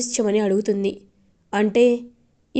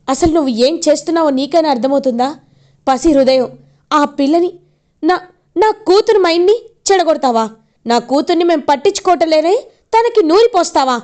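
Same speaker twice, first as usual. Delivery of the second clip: angry scolding; 5 semitones higher, 4 dB louder than usual. Retold or imitated. Father confronting grandmother over daughter.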